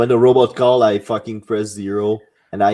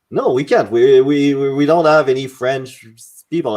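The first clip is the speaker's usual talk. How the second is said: defensive refusal; 4 semitones higher, 4 dB louder than usual. Retold or imitated. Government clerk refusing French service, retold.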